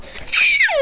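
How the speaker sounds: put-on very high childish bawl; mock crying wail. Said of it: "Don't cry".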